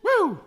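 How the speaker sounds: high whooping yell; party whoop. Real, not acted. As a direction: let out a big celebratory woo. Whoop after finishing beer.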